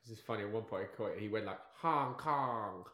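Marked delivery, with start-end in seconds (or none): 1.8-2.8 mock Asian accent. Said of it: "like, a racist, like, voice".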